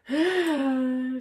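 long anxious sigh; nervous exhale before the big pieces; trepidatious sigh. Real, not acted. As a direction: sigh at the daunting build. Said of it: "She says with trepidation".

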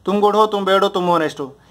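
"तुम गुड हो, तुम बैड हो" evenly patterned, "तुम honest हो" falling to close; rhythm drill. Shown as a demonstration. Teacher showing students a test for adjectives, rhythm drill. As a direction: recite in a rhythmic three-part pattern. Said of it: "एक rhythm बनाए".

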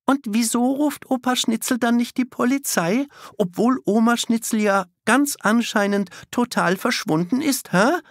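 reproachful. A narrator's reading. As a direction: push the question like an accusation. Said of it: "fragt Kiki vorwurfsvoll".

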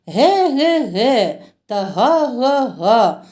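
lightly imitated, slow singsong goose call; goose honking. Teacher recites letter rhyme to children, slow mock goose honking. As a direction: draw out each syllable like a light goose honk.

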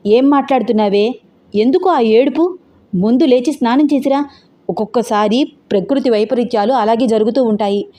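mother telling off her daughter; scolding. Acted. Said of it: "మందలిస్తున్నట్టు అంది". (మందలిస్తున్నట్టు)

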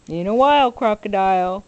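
belted sing-song refrain; loud cheerful refrain. Acted. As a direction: shout the farewell happily, loud. Alligator's refrain.

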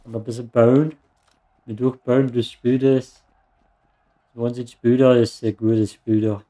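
lightly voiced German farmer dialect; mock German farmer dialect. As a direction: play a country bumpkin from the German countryside, lightly. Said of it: "kann ich in Bauerndialekt dieses Let's Play machen".

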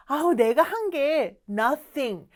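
drawn-out, dismissive humility; lightly acted "no big deal"; modest brush-off. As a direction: play down the favour. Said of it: "뭐 요런 느낌이에요".

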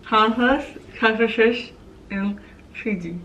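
words mangled by a lip stretcher; lips stretched wide. Real, not acted. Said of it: "You're not even saying it".

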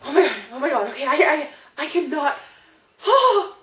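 breathless starstruck stammering; retold fan freak-out. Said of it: "I literally was just like".

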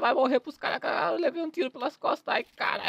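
high-pitched mock panic; panicking gamer. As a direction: squeal in fake gaming panic. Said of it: "eu tava zoando só".

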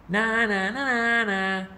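a lightly voiced snorting bird; sing-song jeer from a cocky bird; snorted taunt. A narrator's reading. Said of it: "snorted the flugel bird".

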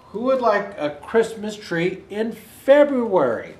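lively, clearly projected picture-book narration; animated read-aloud voice; reading to children. A narrator's reading. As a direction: read it out like a storybook, with lilting emphasis.

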